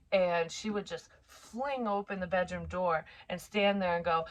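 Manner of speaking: ordinary delivery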